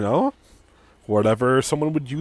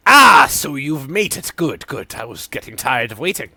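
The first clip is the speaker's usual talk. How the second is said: Sidon NPC voice; 6 dB louder than usual. Acted. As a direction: greet the hero like a theatrical alchemist.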